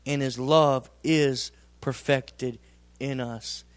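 measured, emphatic pulpit reading; preaching scripture. Acted. Preacher reading scripture to the congregation, emphatic and measured. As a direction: lean on each word like a preacher.

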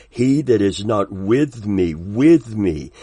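deliberate, emphatic scripture reading; slow, clear reading. Real, not acted. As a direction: repeat "with me" pointedly so it sinks in. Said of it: "I want to read it slowly, clearly".

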